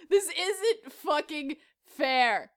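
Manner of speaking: low, soft and very slow; subdued repeat. Pretend. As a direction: say it slowly, deflated after an outburst. Same complaint repeated, subdued.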